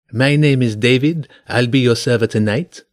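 put-on a light French accent for the waiter. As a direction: waiter David greets them in a mild French accent. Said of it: "he said with a French accent".

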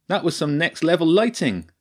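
lightly voiced, upbeat stage tech; excited praise. A narrator's reading. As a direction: cheer him on after the show. Benj praising.

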